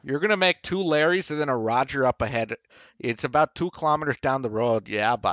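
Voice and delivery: mock Canadian giving directions; Canadian accent. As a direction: riff in a folksy Canadian accent. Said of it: "In real life, it's".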